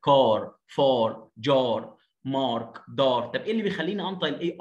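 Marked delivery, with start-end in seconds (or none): 0.1-3.2 "car, far, jar, mark, dar" with long dark ah; emphatic ah vowel. Shown as a demonstration. Teacher drilling A before R, emphatic vowel. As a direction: drill each word singly with a heavy, backed ah. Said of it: "مفخمة كده".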